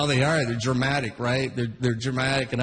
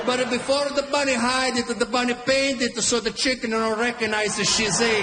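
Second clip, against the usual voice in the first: put-on a lightly higher Italian-accent tale; Italian dad storytelling; 3 semitones higher than usual. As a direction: explain it like a proud father. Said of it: "He's like".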